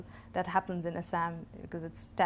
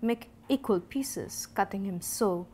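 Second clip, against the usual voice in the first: emphatic instructional poem reading; short deliberate phrases, key words leaned on; poetry recitation; 3 dB louder than usual. Acted. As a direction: give each step as a measured, firm instruction.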